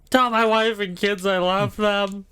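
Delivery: high, slow melodramatic farewell; dying soldier's last words. Acted. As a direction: ham up a dying soldier's goodbye. Acting a dying soldier dummy.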